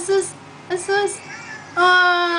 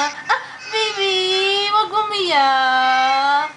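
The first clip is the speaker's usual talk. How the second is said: slow soothing hush; 3 semitones higher, much slower than usual. Real, not acted. Soothing a crying baby.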